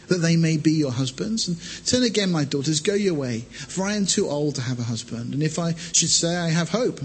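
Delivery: measured Bible reading voice; scripture reading. Acted. Preacher reads Ruth to congregation, measured. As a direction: read the passage steadily to the church.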